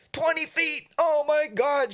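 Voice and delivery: imitating a nervous wife hearing the news; alarmed exclamation. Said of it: "she was so nervous".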